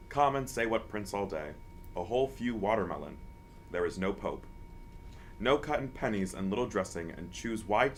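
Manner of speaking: mock-solemn recital of nonsense verse; poetry reading. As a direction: read it as pretentious poetry, phrase by phrase with pauses.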